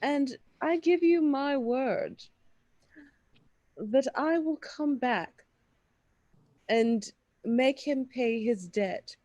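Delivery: haughty, measured bartering tone; snooty voice. Acted. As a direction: look down your nose while haggling. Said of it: "I wanna absorb the snooty voice to barter".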